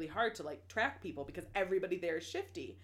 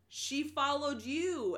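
high, slow, drawn-out sheepish reply; sheepish answer; 7 semitones higher, much slower than usual. Retold or imitated. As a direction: let it dawn on them slowly. Crew answers alarmed Alucard.

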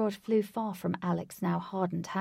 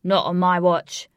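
loud heroic shout; 12 dB louder than usual. A narrator's reading. Alex stopping Lutz taking the princess, shouted. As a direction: shout it as you leap to the rescue. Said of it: "Alex shouted".

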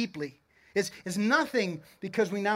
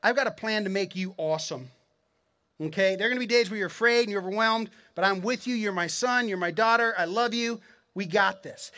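voicing Jesus; 3 semitones lower than usual. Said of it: "imagine him looking at you and say".

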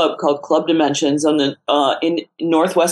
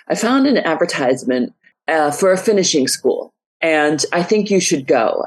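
put-on accidental British accent. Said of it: "I don't know why I just went British there".

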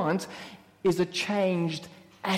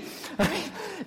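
laugh; 7 semitones higher, 6 dB quieter than usual. Real, not acted. Laugh after joke.

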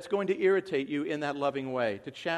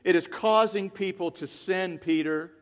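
louder, sharp call of "Peter"; firm rebuke; 6 dB louder than usual. Acted. Paul rebuking Peter publicly, loud and firm. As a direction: confront him squarely. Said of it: "No, he said".

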